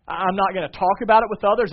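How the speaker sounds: emphatic pulpit promise; forceful preaching. Real, not acted. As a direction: preach it out loud and high, as a vow. Preacher building to forceful climax.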